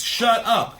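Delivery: high, loud imitated kid's yell. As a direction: burst out to silence them, acted out. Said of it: "But he yells".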